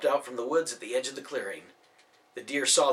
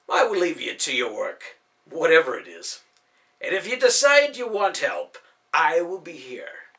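lightly voiced elf; 3 semitones higher, 7 dB louder than usual. Ben's voice, ends whispered.

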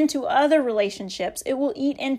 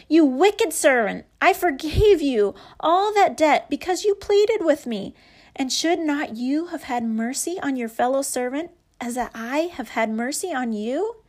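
a touch of a stern, louder rebuke; angry master; 2 semitones higher, 3 dB louder than usual. Acted. Master rebuking his wicked servant, mildly angry scolding. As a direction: scold the servant firmly but restrained. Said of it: "And in anger".

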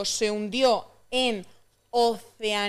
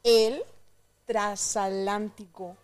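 over enunciating; slower than usual. Shown as a demonstration. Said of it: "Sílaba por sílaba".

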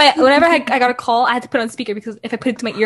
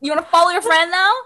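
mock-indignant challenge, pitched up; mad, retold; 5 semitones higher than usual. Retelling the row with brother over friend's code, mock indignation. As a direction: laughingly act out an accusing question. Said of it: "I got so mad".

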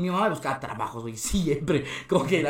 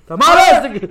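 very high, loud hawking yell; changed-voice vendor cry; 13 semitones higher, 15 dB louder, slower than usual. Retold or imitated. Comic showing how he hawked tamales, put-on shouted cry. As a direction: switch into a piercing street-seller holler. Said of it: "Se cambió su voz".

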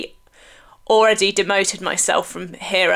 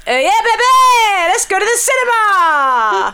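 high, loud, laughing cheer; excited shout; 11 semitones higher, 5 dB louder, slower than usual. Real, not acted. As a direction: cheer it out with glee. Excited cheer for film party.

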